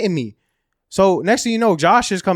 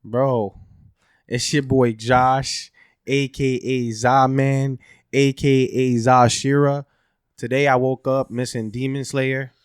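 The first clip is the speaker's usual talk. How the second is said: slow, drawn-out host intro; show host intro; 2 semitones lower, much slower than usual. Acted. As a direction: announce yourself like a show host.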